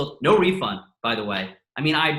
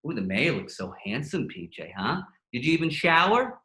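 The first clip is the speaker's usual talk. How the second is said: mock zinging mom. Comedian imitating his mom teasing him, lightly mocking. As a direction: needle him like a mom, understated. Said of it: "she's zinging me".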